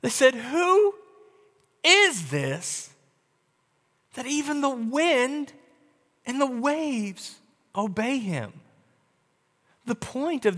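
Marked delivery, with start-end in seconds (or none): 0.3-8.6 hushed, trembling wonder at who is in the boat; frightened disciples whisper among themselves; awed, afraid. Retold or imitated. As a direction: ask it slowly, half afraid of the answer. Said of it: "very much afraid".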